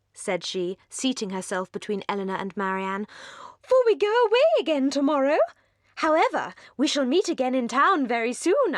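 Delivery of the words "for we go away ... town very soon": very high, louder, breathless society chatter; giddy young lady. Acted. Mrs Palmer gushes at the Dashwood sisters, very high and giddy. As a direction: gush like a merry, empty-headed hostess.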